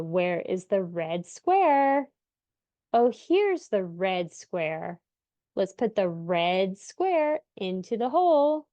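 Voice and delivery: put-on slow, drawn-out sing-song to a toddler; parentese. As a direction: stretch each word slowly for a little child. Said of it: "which I think you heard me do in the last example".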